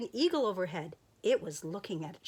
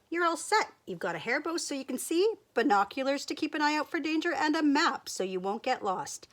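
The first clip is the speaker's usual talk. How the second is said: excited; 7 semitones higher, 5 dB louder than usual. Acted. Sheep proudly lists her gifts.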